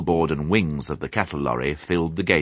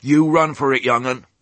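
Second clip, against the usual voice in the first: put-on rustic old sheep; 7 semitones higher, 4 dB louder than usual. A narrator's reading. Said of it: "said Ma mournfully".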